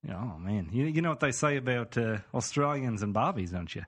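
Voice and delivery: chatty put-on Aussie; Australian accent. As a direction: banter in a broad Aussie accent. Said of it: "let's get back into character here".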